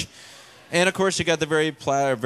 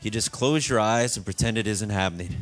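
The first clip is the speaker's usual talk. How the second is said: calm mom; 5 semitones lower than usual. Retold or imitated. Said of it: "very calmly says".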